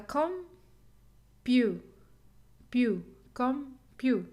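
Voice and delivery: compu broken slowly into com and PEW; slow, thinking-aloud split of compu; syllable stress test. Shown as a demonstration. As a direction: try pew alone, then compu in separate beats. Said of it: "It's not ta, because this is schwa sound".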